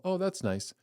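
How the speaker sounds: high, breezy brush-off; mock polite indifference; dismissive shrug. Listener brushing off the sermon, airy and dismissive. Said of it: "don't just hear what I'm saying and go".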